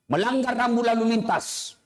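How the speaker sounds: ordinary delivery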